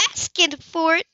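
outraged echo. Acted. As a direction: throw his words back, outraged. Grace outraged.

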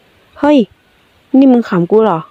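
hammed-up indignant hey; mock confrontation. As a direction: pretend to pick a fight, not really mad. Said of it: "อย่างเอาเรื่อง แต่ไม่จริงจังนัก".

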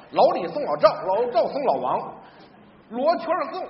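ordinary delivery

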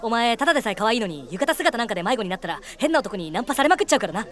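low, put-on cool-guy murmur; suave boyfriend. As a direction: rehearse a possessive boyfriend's line. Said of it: "絶対にこのセリフ言うぞ".

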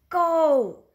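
loud eager cheer; excited go. A narrator's reading. Child cheering his mom on at the blender, loud and eager. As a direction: shout it out with glee.

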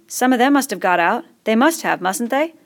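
worried schoolboy asking; fat boy voice. Acted.

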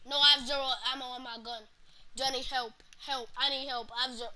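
fast, loud panicked plea; panicking gamer. Real, not acted. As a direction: beg your teammate for help, rushed. Out of ammo, calling for help.

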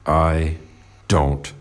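very low, halting delivery, word by word; low, grudging and spaced out; sullen denial. Acted. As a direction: drop the voice deep and refuse to play along.

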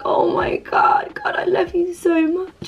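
breathless awed whisper, slowed right down; whispered prayer. Retold or imitated. Quoting her own whispered prayer during worship, awed whisper. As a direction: pray under your breath, overcome with love for God.

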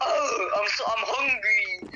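slow, whimpering mock cry; fake whiny crying. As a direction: whine like a hungry kid, half-crying. Whining about hunger in game.

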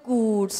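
GOOD held long as the mistake; drawn-out good. Shown as a demonstration. Teacher showing children what to avoid, drawn-out good. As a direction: stretch the vowel of "good". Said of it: "ไม่ good ยาวๆ".

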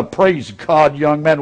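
a hint of a pompous preacher greeting; lightly put-on churchy tone; mock preacher voice. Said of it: "Have you ever heard preachers do that?".

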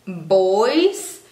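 put-on "boys" drawn out, starting on B. Shown as a demonstration. Teacher modelling the B, "boys" said carefully. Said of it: "se pronuncia con B".

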